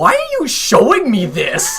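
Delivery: high-pitched, baffled, puzzled, bewildered tone. Retelling what Mister Potsdam says in a game: imitating a bewildered tone. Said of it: "says in a really bewildering tone".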